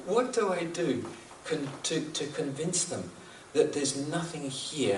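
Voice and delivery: imitated exasperated appeal; mild retold frustration. Swami struggles to convince them, mildly frustrated. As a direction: act out a touch of helpless frustration. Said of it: "you could hear the frustration".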